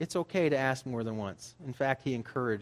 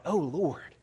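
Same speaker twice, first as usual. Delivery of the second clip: crying out to God; 3 dB louder than usual. Retold or imitated. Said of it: "do people cry out".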